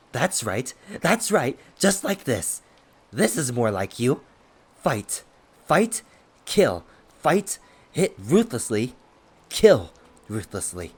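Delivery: frenzied howling, loud and high, goading; excited howl. A narrator's reading. Trampled villain goading his attacker to fight, excited howl. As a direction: punch out each command like a crazed war cry. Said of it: "while he howled".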